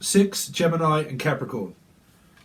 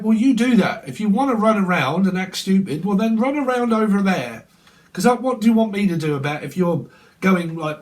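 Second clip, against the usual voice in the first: mock exasperated telling-off; 3 semitones higher than usual. Acted exasperated reply.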